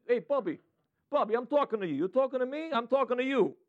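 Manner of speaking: put-on playful New York wiseguy accent. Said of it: "he sounds like New York".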